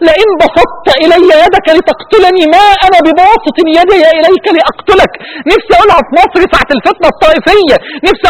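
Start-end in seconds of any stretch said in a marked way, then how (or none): 0.1-5.1 slow, tearful, pleading verse; impassioned plea. Real, not acted. Preacher pleading with Iraqis to stop the killing. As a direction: beg them with the verse, voice breaking. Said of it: "وأقول له في ودنه".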